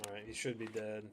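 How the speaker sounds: "should" leaned on a little; stress on should. Real, not acted. Gamer doubting his kill, stress on should. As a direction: land on "should" as the doubtful word. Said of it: "Being the key, key word here".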